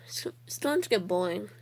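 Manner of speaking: hushed bored aside; whispering. Real, not acted. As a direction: whisper it so no one hears.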